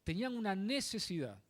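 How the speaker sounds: "necesidad" set apart with deliberate weight; stress on necesidad. Real, not acted. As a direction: repeat it, leaning on "necesidad". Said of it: "Recalco esta palabra". (recalcar con peso la palabra "necesidad")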